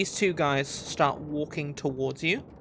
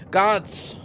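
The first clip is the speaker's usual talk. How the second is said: loud, raised call for backup; 5 semitones higher, 5 dB louder than usual. Acted. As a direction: summon the men as an angry guard. Guard calls his men.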